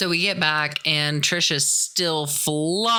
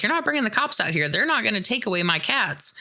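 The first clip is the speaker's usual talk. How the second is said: put-on cranky old lady; 5 semitones higher, faster than usual. Old lady refuses the cops.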